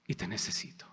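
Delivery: breathy whisper of longing; hushed confession; whispered prayer. Acted. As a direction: whisper it to God, close and private.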